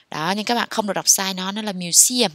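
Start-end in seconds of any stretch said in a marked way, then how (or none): 1.7-2.3 "museum" with weight on "se"; stress on second syllable. Shown as a demonstration. Teacher correcting learners on "museum", stressing the second syllable. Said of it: "nhấn âm hai nhé các bạn".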